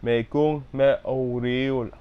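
Me kung me o- with stress on kung, slow; fixing the stress. Shown as a demonstration. Learner correcting the stress after the teacher. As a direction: lean on kung slowly. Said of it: "syllable stress right".

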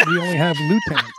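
mock-insistent "lieutenants" said loo-; American "lieutenants". Shown as a demonstration. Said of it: "we don't have right tenants either".

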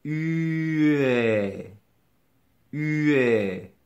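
"U" held long, gliding straight into "est"; sing-out "U, est" as one long glide; chained vowels. Shown as a demonstration. Teacher chaining two sounds for repetition, drawn-out linked demonstration. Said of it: "On vient d'enchaîner deux mots".

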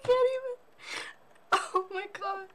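high, helpless squeal; real helpless hysterics; losing it laughing. Real, not acted. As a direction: barely get words out from laughing. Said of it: "I'm losing my shit right now".

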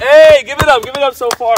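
mock cheer. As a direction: hype up the shot sarcastically. Mock cheering after shots.

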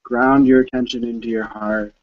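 measured meditation guide with long pauses; unhurried phrases, leaving space to breathe; guided meditation. Real, not acted. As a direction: gently lead listeners inward, phrase by phrase.

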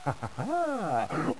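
soft, smug evil chuckle; villain chuckle. Acted. Villain amused by his own riddle, soft chuckle.

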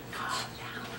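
soft whispered calm-down; soothing whisper. Real, not acted. Dad whispers softly to calm the excited dog. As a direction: hush her gently.

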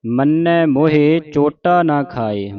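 slow, measured model recitation; scripture recitation demo. Shown as a demonstration. Teacher showing congregation correct Japji Sahib reading, slow recitation. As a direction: recite it slowly for learners to copy. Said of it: "ਸ਼ੁੱਧ ਉਚਾਰਨ ਆਪਾਂ ਸਿੱਖ ਰਹੇ ਹਾਂ".

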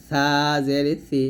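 light tongue-tip th in "সা জের সি"; thin tha. Shown as a demonstration. Teacher demonstrating the letter tha, lightly pronounced "সা জের সি". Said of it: "সা পাতলা করে".

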